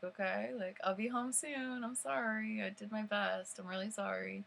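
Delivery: mildly pleading, lilting sorry; retold apology. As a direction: apologize to smooth things over. Retold apology to angry friend.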